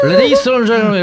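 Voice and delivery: pilot announcement. Shown as a demonstration. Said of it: "이렇게 해야죠".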